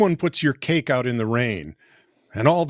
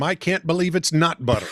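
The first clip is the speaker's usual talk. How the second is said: laughing shout. Pretend. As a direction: blurt it through a laugh. Quotes ad with laugh.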